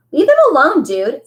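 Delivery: high, loud order to back off; firm call. A narrator's reading. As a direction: call out to stop the fight. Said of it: "Amos repeated calmly".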